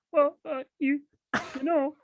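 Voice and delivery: mock Peterson warning about chocolate; Jordan Peterson impression. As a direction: lecture it in a thin quavering squeak. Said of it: "Jordan Peterson's like".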